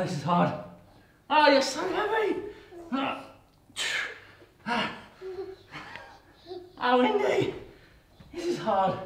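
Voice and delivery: carrying someone. Real, not acted. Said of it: "Lay on my back flat".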